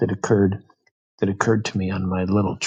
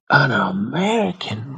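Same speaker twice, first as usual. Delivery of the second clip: retold loud exclamation, slow and breathy rather than shouted; mock-blurt it out so the carriage hears; half-hearted imitation of a loud drunk outburst; 5 semitones higher, 3 dB louder, slower than usual. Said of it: "really loud".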